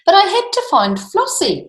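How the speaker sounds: put-on boy explaining to his angry father; boy pleading. A narrator's reading. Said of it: "said the boy".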